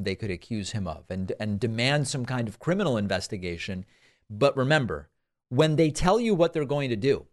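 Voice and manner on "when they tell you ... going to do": catching in the throat, choking; throat catching mid-sentence. Real, not acted. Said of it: "excuse me, choking".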